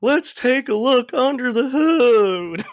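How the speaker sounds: high, loud, slow Southern drawl; hammed-up Southern mechanic accent, stretched out. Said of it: "a Southern mechanic".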